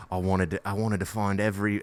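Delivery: shaky attempt at an Irish accent; botched Irish accent. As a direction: try an Irish lilt and miss. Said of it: "I can't do an Irish accent".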